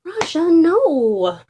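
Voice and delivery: high, slow, loud scolding. Acted. Owner scolding the chewing dog, loud and firm. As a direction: tell the dog off firmly.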